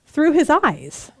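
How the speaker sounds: imitating a slow, unsure student answer; mock-tentative, stretched-out reply. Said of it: "didn't really know how to answer".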